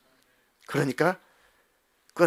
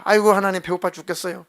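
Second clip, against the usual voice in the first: whining Israelites; 4 semitones higher, 4 dB louder than usual. Acted. Israelites complain of hunger.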